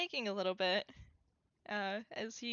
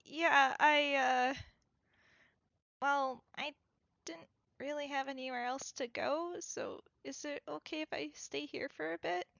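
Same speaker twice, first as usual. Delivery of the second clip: hesitant character voice; 4 semitones higher than usual. Acted. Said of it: "he's just like".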